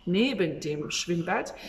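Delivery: German sentence said very slowly and clearly; slow model sentence for French learners of German; slow teaching demo. Shown as a demonstration. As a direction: lay out each word slowly for learners. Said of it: "Je vais t'apprendre du vocabulaire".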